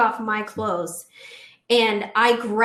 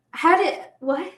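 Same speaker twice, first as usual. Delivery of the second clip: higher, slow and stunned; stunned confusion; 7 semitones higher than usual. Retold or imitated. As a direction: retell her baffled reaction. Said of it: "she's like".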